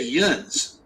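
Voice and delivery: "yuns" in the local Pittsburgh way; regional "yuns". Retold or imitated. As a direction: say "yuns" as "yoonz", one Pittsburgh-area word. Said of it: "they say".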